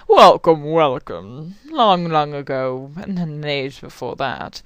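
a hint of an old wizard, slow and low; Gandalf voice. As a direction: lightly intone like an old wizard. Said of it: "It sounds like fucking Gandalf".

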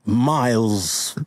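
slow, halting put-on British accent; mock British accent. Introducing Shakespeare's son, mock British accent. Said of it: "We're doing accents".

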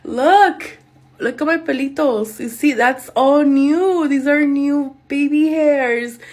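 pointing proudly at the new hairs; thrilled showing off. Real, not acted. Showing her viewers her new baby hairs, excited and slow.

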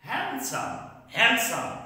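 handsome with the D sounded; wrong pronunciation. Shown as a demonstration. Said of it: "not correct".

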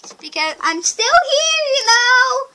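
high, loud urgent shouting; frantic yelling. Pretend. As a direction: yell it out in a hurry. Yelling at animatronic, oxygen low.

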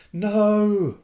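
yelled. Acted. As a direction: cry out in panic as the car dives. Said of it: "Ron yelled".

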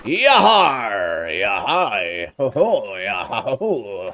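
playful pirate hollers; a string of pirate yells; pirate cries. Acted. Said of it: "my amazing pirate voice".

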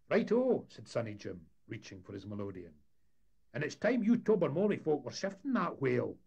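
cheeky lad calling out to visitors; high, loud brash Scots greeting; Sonny Jim voice. Acted. Deckhand chirping agreement.

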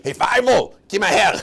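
loud, high holler to a friend; calling out. Acted. Gossiper hailing Feivel with news, calling out. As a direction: call him over, loudly and eagerly.

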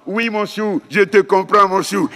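put-on mother soothing her babbling baby, cooing. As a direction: coo like a mum soothing her one-year-old. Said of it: "qu'est-ce que dit la maman?".

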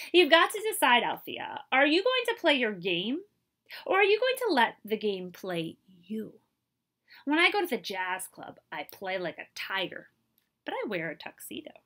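earnest urging. Acted. Buddy urges Althea earnestly.

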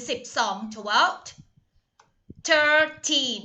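twelve drawn out slowly with a rising tune; slow teaching model. Shown as a demonstration. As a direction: stretch out twelve slowly for students. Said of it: "ไม่ได้ออกเป็น second". (พูด twelve ช้าๆ เน้นให้นักเรียนฟัง)

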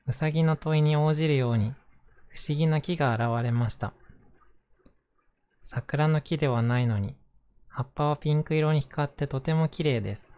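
gentle picture book reading; reading to children. Acted. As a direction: read it like a bedtime story. Reads a picture book aloud.

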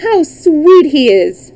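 high, loud, drawn-out delight; delighted cry. A narrator's reading. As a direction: gush slowly over how sweet he is. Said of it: "cried in delight".

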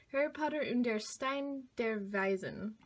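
a tentative stab at German pronunciation; amateur German accent, self-conscious; German accent attempt. Shown as a demonstration. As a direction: butcher the German title with a German accent. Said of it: "I don't know how to say Harry Potter with a German accent".

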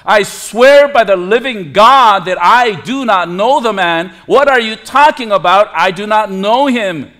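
mildly heated mock oath; sworn denial. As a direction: swear it insistently, as Peter denying he knows him. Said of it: "oath to swear by the living God".

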